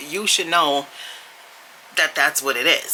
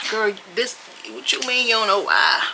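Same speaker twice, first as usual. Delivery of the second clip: put-on girl, you can't be serious; incredulous; 8 semitones higher than usual. Scolding the TV women, high mock disbelief. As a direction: pitch jumps up, mock disbelief.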